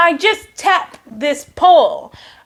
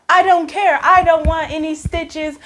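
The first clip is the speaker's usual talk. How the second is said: higher, mildly panicked refusal; retold freak-out; 4 semitones higher than usual. Patient refusing stitches, mock freak-out. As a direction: act out a stubborn little freak-out. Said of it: "and I'm freaking out".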